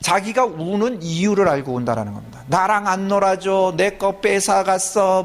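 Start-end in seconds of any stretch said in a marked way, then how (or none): 2.5-5.2 put-on child voice. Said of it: "이걸 얘기하면서 울어요".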